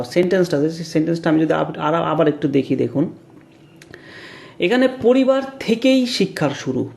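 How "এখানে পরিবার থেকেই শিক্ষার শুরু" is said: থেকেই vurgulu, hafifçe öne çıkarılmış; emphasize থেকেই gently; stress on থেকেই. Shown as a demonstration. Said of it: "তার মানে এটার উপরে কিন্তু একটা জোর দেয়া হয়েছে".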